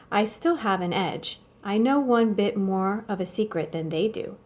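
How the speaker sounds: steady read-aloud storytelling voice; story narration. A narrator's reading. Teacher reading the novel aloud to students, calm story narration. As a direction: read the chapter aloud to the class.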